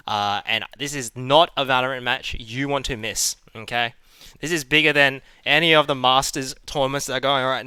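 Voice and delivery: energetic tournament host intro; esports caster. Real, not acted. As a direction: hype up the match like a caster.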